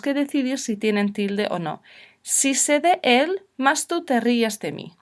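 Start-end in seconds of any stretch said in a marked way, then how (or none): 2.2-4.9 first half drawn out slowly, rising on de; a slow, careful memory sentence for the class; slow mnemonic. Shown as a demonstration. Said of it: "Si recuerdas esta oración".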